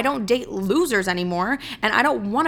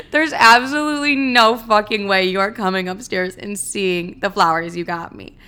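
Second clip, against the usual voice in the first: laughing refusal; 3 dB louder than usual. Retold or imitated. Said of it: "Without hesitation, I went".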